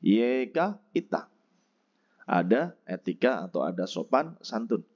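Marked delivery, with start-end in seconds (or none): 0.0-1.3 yeka ita slowly; slow model word. Shown as a demonstration. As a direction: say yeka ita clearly for learners. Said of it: "Yang pertama ada yeka ita".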